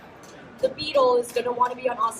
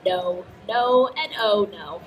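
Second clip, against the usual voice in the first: disapproving mom; 3 semitones lower, 5 dB louder than usual. Retold or imitated. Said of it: "My mom was like".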